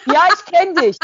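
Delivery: high, loud, menacing rant; a deranged stranger threatening to find her; unhinged threat. Retold or imitated. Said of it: "Und, äh".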